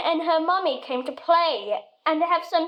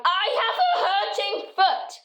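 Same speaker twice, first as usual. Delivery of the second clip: high laughing mock shout; 6 semitones higher than usual. Girl calling back to her mother down the pavement, laughing mock shout. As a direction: call it out far behind with a laugh. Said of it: "to shout".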